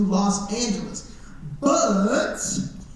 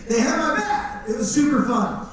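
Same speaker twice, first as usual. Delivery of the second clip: speaking through a real laugh; 4 semitones higher than usual. Real, not acted. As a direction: chuckle the words out. Laughing after the joke.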